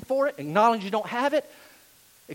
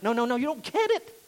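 insistent correction; 4 semitones higher than usual. Acted. Paul telling the Philippians they miss it, insistent. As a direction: pitch climbing through the protest.

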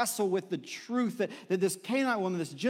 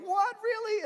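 put-on surprised kids. Kids surprised at plane tickets.

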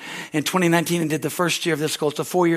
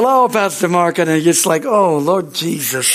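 mock gushing; slower than usual.

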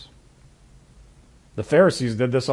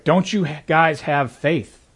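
disappointed; 3 semitones higher, slower than usual. Retold or imitated. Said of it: "concerned or maybe disappointed".

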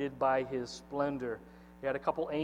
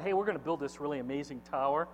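self-admiring boast; 3 semitones higher than usual. Acted. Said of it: "And they decide".

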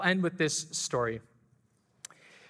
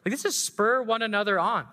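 much higher, thrilled; a coach remembering the race, much higher and excited; excited realisation; 7 semitones higher than usual. Retold or imitated. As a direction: relive the sudden spark of recognition.

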